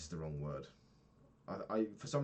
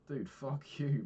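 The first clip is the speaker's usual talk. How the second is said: "Dude, fuck you" thrown out louder and higher; loud fed-up outburst; 7 semitones higher, 5 dB louder, slower than usual. Real, not acted. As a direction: let the frustration burst out at the app. Annoyed at the app's upsell.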